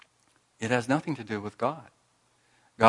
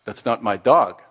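put-on indignant French accent, louder; huffy complaint in a French accent; angry Clouseau; 6 dB louder than usual. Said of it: "Clouseau says angrily to the clerk".

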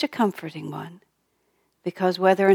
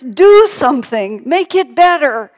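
loud, high, drawn-out mock wail; fussing baby's demand; 7 semitones higher, 12 dB louder than usual. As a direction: cry out like a baby demanding help. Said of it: "he was just fussing and crying".

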